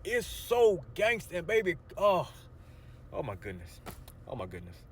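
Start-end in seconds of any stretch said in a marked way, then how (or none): 3.1-4.8 worked up. Real, not acted. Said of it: "I'm getting all worked up".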